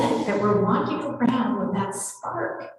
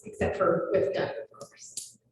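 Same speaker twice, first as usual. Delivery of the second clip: teasing whisper about Doug; a playful stage whisper to the room; whispered aside; 7 dB quieter than usual. Real, not acted. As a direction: lean in and whisper the joke.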